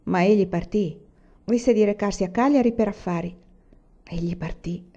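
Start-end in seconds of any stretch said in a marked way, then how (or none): 4.0-4.8 soft, sighing repeat, much quieter; con un sospiro. Acted. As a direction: let it fall away on a sigh. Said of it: "ripeté la donna con un sospiro". (ripetuto piano, con un sospiro)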